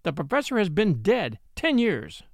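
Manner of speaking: emphatic fury. Acted. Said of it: "speaking with an emphasis and fury".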